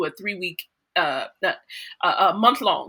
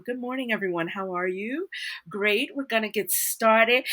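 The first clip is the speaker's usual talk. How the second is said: her natural New Orleans voice; 3 semitones higher than usual. Shown as a demonstration. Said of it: "when I've walked into a room".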